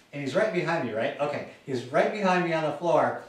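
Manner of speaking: ordinary talk, nothing marked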